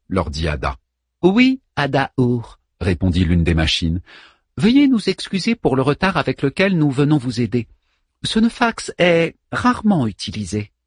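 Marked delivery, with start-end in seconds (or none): 1.2-10.7 polite servant robot. Acted. Servant machine voice.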